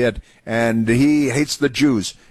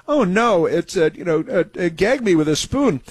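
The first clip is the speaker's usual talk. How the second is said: a light mock Valley Girl whine, higher; 5 semitones higher than usual. Host mocking the anchor as a lightly voiced Valley Girl. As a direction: toss it off like a teen Valley Girl. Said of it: "like, Valley Girl stuff".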